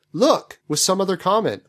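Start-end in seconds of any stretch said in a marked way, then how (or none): 0.1-0.6 outburst. Acted. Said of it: "his outburst of".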